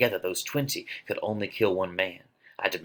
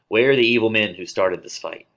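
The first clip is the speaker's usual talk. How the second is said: louder, commanding call; loud demand; 3 semitones higher, 8 dB louder than usual. Acted. Prince arrives demanding the culprits, loud.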